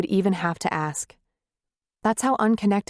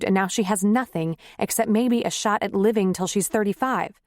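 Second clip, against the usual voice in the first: upset wife; 4 semitones higher than usual. Acted. Wife's upset reply.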